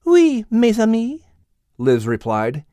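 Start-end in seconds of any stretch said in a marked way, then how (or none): 0.0-1.2 put-on higher French accent, amused; French-accented Liz. Liz explaining the rooster, French accent. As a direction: explain it with Gallic ease.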